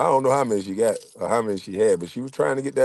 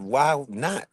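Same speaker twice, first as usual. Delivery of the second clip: softer, teasing come-on under the breath; sly quiet invite; 3 semitones higher, 7 dB quieter than usual. Retold or imitated. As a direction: tempt him quietly. Body's silent invitation, first telling.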